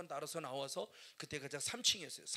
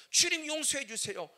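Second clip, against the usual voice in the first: louder, higher cry; peak of pleading; 7 semitones higher, 11 dB louder than usual. Retold or imitated. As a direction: push the plea to its peak. Repeated plea, climax.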